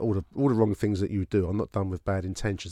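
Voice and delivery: ordinary talk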